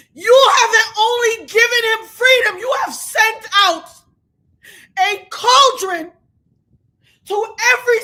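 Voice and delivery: loud, choked furious cry; angry outcry. Real, not acted. Streamer crying out at the jury's decision, choked furious yell. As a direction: yell it through tears of rage. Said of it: "I'm so fucking angry".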